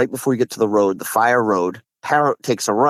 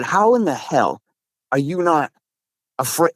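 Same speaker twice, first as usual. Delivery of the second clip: raised pitch, halting incredulous question; retold disbelief; 5 semitones higher than usual. Challenging a friend over returning to the pond, retold disbelief. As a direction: recount your exasperated question with pauses.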